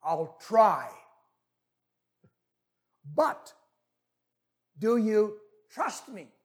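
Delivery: slow, deliberate delivery with long pauses; lightly voiced calm heavenly voice; voice from above. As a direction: ask it slowly and weightily. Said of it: "the voice from above said".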